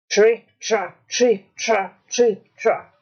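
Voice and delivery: evenly spaced, emphatic trip-trap; big goat's hoofsteps. A narrator's reading. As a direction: stamp out each heavy step. Big goat's heavy steps on bridge.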